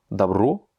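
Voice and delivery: "добро" said da-BRO, rising at the end; last-syllable stress. Shown as a demonstration. Teacher reads the third word, stress on the final O. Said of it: "il a l'accent tonique sur le dernier O".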